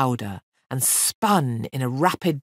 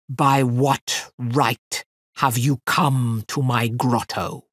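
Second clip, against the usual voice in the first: lower, slow booming demon voice; roaring fire fiend; 3 semitones lower, slower than usual. Acted. Fire fiend demanding of the girl who intrudes, booming slowly. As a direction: rumble it out like a roaring forest fire. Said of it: "In a voice like the roar of a forest fire".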